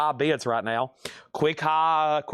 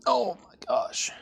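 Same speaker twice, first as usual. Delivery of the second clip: breathy amazed whisper, higher; awed whisper; 5 semitones higher, slower than usual. Real, not acted. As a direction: whisper it like you can't believe the find. Amazed reaction while browsing records.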